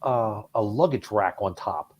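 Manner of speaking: put-on a light Boston accent on the brothers' question. Radio host asking the caller, a touch of Boston accent. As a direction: ask it with a hint of Boston. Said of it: "this is my best Boston accent".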